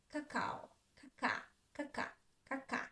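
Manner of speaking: quick unclear first "ka" in "caca", clear second; ka-KA, "caca" with the first "a" reduced; short first syllable. Shown as a demonstration. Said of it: "I say it shortly".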